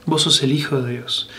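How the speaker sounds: quiet, reverent repeat. Shown as a demonstration. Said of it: "repeated softly, second take".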